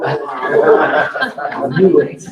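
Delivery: laughing. Real, not acted. Joking about extra money.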